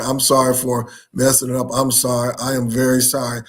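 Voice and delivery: low, subdued apology; apologetic. Real, not acted. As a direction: own up to a slip, voice dropping.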